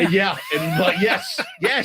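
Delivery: laughing through the words. Real, not acted. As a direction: chuckle as you answer. Laughs while answering.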